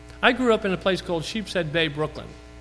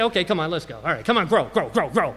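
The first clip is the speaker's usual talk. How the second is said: impatient farmer. Retold or imitated. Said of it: "doesn't stand around like this and say".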